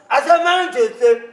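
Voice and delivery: slow, pressing repeat; stern repeat. Acted. Elder repeating his demand, slow and stern. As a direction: drive the word home slowly.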